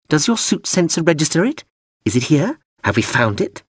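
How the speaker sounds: high, insistent drone voice; pushy drone. Acted. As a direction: nag him like a fussy machine. Drone presses Hawser.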